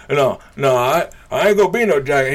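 mocking heckler voice. Comic imitating heckler who scoffed, mocking. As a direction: put on the scoffing heckler's protest.

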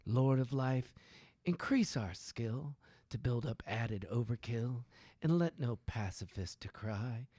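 measured prayer recital, phrase by phrase with pauses; mock prayer reading. Man reading a satirical war prayer to friends, solemn recital. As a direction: intone it like grace from a pulpit. Reads a prayer poem aloud.

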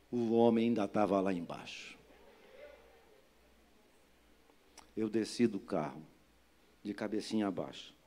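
low, subdued, penitent voice; sober, contrite, low-pitched delivery; humbled apology. Retold or imitated. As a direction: tell it low with head bowed.

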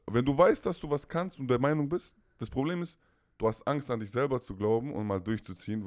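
höher und lauter, der Vater redet ins Gewissen; eindringlicher Vater. Retold or imitated. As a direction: halte ihm eindringlich den Spiegel vor. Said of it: "der so". (der Vater redet dem Sohn eindringlich ins Gewissen)

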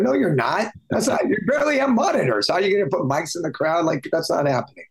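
exasperated rant, voice climbing; worked up. Real, not acted. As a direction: pitch jumps high in disbelief. Ranting about crowd mics.

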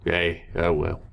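lightly voiced goblin; a hint of a goblin showman; gurgling alien. GM plays goblin character.

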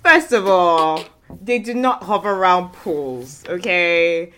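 slow, firm mock-offended pigeon; pigeon speaking up. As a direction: correct them as a proud pigeon. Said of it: "your family friend, the pigeons".

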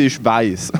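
pointed, low "weiss" to close the line; "weiss" set apart with loaded emphasis; stress on weiss. Real, not acted. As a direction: land knowingly on "weiss". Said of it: "Mit Betonung auf weiss".

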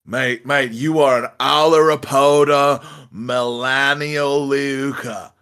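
put-on Australian accent, cheeky and insistent; fast-talking Aussie. Pete, fast-talking the armed panda, in a cheeky Australian accent. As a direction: talk circles round him with chutzpah. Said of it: "chutzpah plus fast talk".

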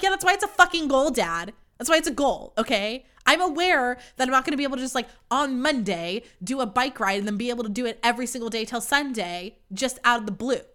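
loud, fast, annoyed retort; exasperated yell. Retold or imitated. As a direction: snap back at dad. Arguing with dad.

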